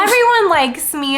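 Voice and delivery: lightly voiced smooth host; smooth Carlisle. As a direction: schmooze the room. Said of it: "social chair Carlisle's like".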